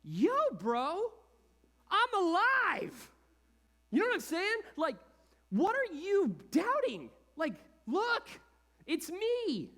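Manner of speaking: high, loud, slow bro voice; hammed-up surfer-dude Jesus; casual Jesus. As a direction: call out like a buddy waving from the hilltop. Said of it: "I would have been like".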